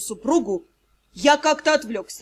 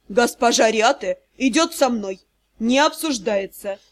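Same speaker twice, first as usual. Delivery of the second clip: grim; 3 semitones lower than usual. Acted. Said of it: "мрачно сообщил".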